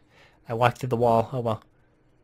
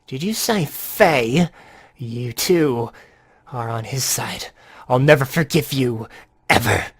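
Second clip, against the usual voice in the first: slow, menacing unhinged villain; crazy villain growing louder; 3 dB louder, slower than usual. Acted. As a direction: drag the words out like a madman. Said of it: "I'm gonna give him a more, uh, crazy voice".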